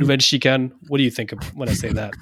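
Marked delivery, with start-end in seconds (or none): 0.0-0.7 Monaco corners said the French way; French accent, a touch of showing off; French pronunciation. Shown as a demonstration. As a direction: roll out the corner names in native French. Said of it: "turned on by your French accent".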